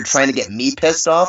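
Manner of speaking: usual speaking voice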